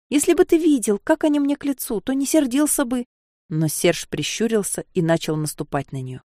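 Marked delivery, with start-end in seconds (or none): 0.1-3.0 whining. Acted. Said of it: "И снова заныла".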